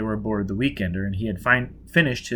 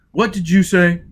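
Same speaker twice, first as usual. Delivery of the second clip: impatient demand; 7 semitones higher, 8 dB louder than usual. A narrator's reading.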